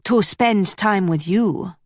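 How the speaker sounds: put-on slow flirt in a light Flemish accent; hint of a Flemish accent, unhurried. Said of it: "he said in that Flemish accent".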